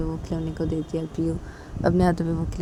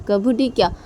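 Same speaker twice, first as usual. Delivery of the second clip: a bit louder, playful justifying; cheeky explaining; 2 semitones higher, 5 dB louder than usual. Acted. Father explains his prank to angry wife, cheeky. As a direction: own the prank with a grin.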